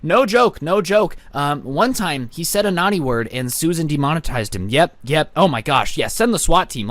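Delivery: lightly voiced entitled Karen reporting to 911; a hint of a prissy complainer, pitch jumping up at officer; mock Karen call. Karen calling 911 about a YouTuber, lightly mocking. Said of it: "how would that nine one one call go".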